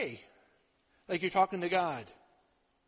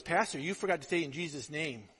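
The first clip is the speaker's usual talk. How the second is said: quiet aside; 6 semitones lower, 6 dB quieter than usual. Retold or imitated. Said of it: "she goes".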